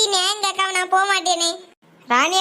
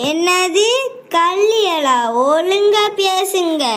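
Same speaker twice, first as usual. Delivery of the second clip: outraged retort; 4 dB louder, much slower than usual. Acted. Insulted mother retorts in shock.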